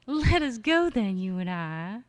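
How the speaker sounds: lightly voiced faux Southern reading; a hint of a Southern lilt; faux Southern accent. Shown as a demonstration. Poet quoting Eliot, light faux Southern accent. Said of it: "this last faux Southern harvest moon accent".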